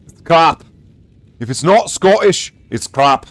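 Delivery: mock Scots brogue; Scottish accent. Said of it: "You could pass for Scottish with that".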